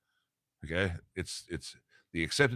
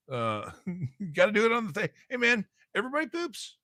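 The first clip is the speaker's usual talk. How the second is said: high, loud cartoon dad voice with laughs; Peter Griffin; 5 dB louder than usual. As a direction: do the goofy Peter Griffin chuckle-talk. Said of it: "I sound like Peter Griffin".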